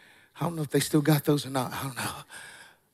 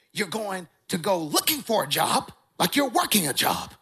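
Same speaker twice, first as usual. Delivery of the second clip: lightly imitated church elder; a hint of the old preacher's voice; strong-voiced old elder. Elder telling a young man to job-hunt, lightly mimicked strong voice. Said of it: "that's how he taught".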